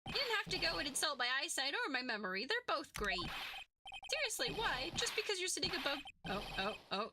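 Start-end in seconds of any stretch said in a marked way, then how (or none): 0.1-6.0 slightly raised, wounded complaint; indignant rant. Acted. Witness defending his eyesight to the judge, indignant rant. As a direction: rant back like an insulted witness. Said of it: "he's going on a rant".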